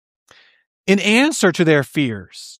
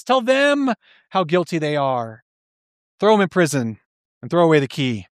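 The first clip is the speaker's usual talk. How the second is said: mock gleeful cheer. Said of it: "we cheer deep down in our hearts".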